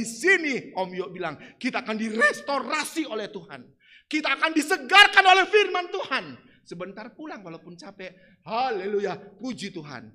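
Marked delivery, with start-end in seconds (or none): none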